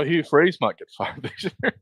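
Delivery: laughing. Real, not acted. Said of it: "I can't even say it with a straight face".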